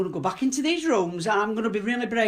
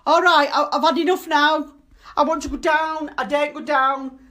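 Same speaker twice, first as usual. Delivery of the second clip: higher and louder, shouting out of fear; real frightened shout; 4 semitones higher, 4 dB louder than usual. Real, not acted. She shouts at the ghost she fears, scared and at her limit. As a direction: yell it, scared and fed up. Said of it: "I'm sorry for shouting at you".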